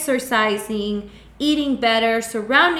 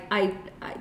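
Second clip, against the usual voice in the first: put-on regretful old self; 3 semitones lower, 6 dB quieter than usual.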